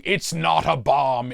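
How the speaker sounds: hammed-up panicky shout; mock panicked shout at the cop. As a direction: blurt it out at a run. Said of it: "I run directly at a cop shouting".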